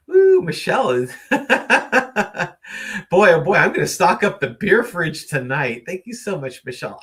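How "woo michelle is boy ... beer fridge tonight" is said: loud whooping thanks with a laugh; excited whoop. Real, not acted. Thanking Michelle for a donation, whooping. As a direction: cheer loudly for the donation.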